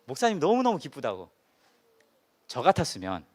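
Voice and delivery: ordinary talk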